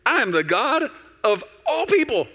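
high, loud, theatrical proclamation; hammed-up almighty boast; grand voice of God. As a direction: declare it as God strolling in, loud and stately. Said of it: "just imagine him kind of strolling, and he goes".

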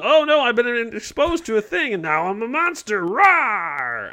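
high mock monster rawr; hammy monster growl at the end; dinosaur voice. Mock soldier turned monster.

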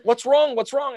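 high, urgent mom asking what's wrong; retold motherly alarm, high-pitched; worried mother. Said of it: "And she's like".

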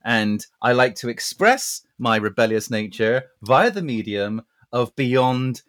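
slow, measured speech, pitched low; mock-formal gentleman. Rebellious chap explains his long hair to listeners, mock-formal. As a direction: make a solemn little declaration, unhurried.

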